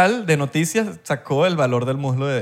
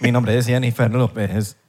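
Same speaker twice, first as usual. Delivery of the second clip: robot voice; 5 semitones lower, slower than usual. Pretend. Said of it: "Como un robot".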